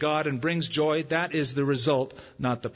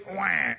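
mock baby wail; 3 semitones higher than usual. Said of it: "When I was hungry".

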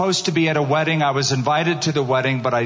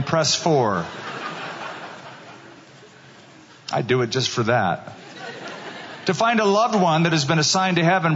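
automated phone menu recording. Pretend. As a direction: read it like a call-centre recording. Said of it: "a response from heaven, something like this".

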